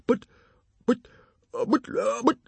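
high stammering bluster; flustered, tripping over the words. A narrator's reading. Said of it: "blustered Stoic".

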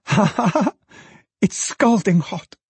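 put-on high-pitched girlish glee; laugh, then exclaim it high with delight. A narrator's reading. Daughter laughing over hot basket.

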